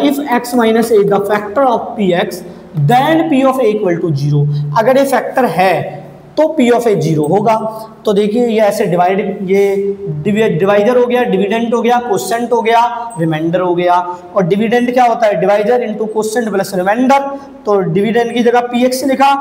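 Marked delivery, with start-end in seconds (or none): 0.1-4.4 the theorem read out word by word; unhurried dictation to the class; slow dictation. Shown as a demonstration. Rereading the theorem for students. 15.4-17.2 each term spaced out; deliberate, spaced-out recital; slow dictation. Shown as a demonstration. Dictating the division formula.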